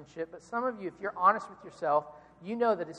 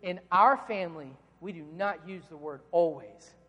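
stern dad; 3 semitones lower than usual. Retold or imitated. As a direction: lay down the law, word by word. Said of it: "I was very stern".

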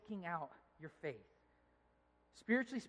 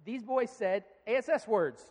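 loud, slow, unashamed retelling; imitated matter-of-fact little girl; confident child; 6 dB louder than usual. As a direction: say it openly, as an innocent child would. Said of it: "says it with confidence, without a whisper".

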